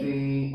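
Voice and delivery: "তি" held with a little air flowing; aspirated, drawn out. Shown as a demonstration. Teacher demonstrates for pupils, "তি" long and lightly aspirated. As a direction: stretch "তি" and let some breath through. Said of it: "অল্প একটু বাতাস চালু রাখতে হবে".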